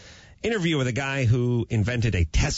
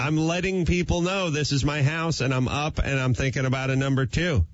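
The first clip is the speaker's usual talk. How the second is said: high, slightly altered pet voice; dog's voice; 4 semitones higher than usual. Pretend. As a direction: speak as the cheeky dog. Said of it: "her thing is".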